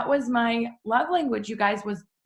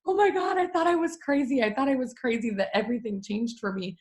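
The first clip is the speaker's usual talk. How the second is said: higher, astonished relief; relieved disbelief; 5 semitones higher than usual. Retold or imitated. Mom realizing others feel the same, high relieved disbelief. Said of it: "sitting there like".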